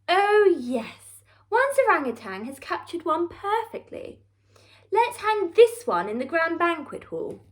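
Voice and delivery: a touch of plummy Queen; lightly voiced haughty Queen. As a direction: deliver the verdict with royal disdain. Queen judges the paintings.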